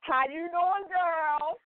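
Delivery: high, drawn-out sing-out of welcome; excited greeting. Real, not acted. Host welcomes her sister on air.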